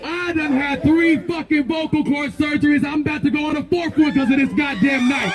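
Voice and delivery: fast furious shouting; impassioned yelling. Real, not acted. Protest leader yelling at people on couches, impassioned shout. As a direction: rail at the people staying home.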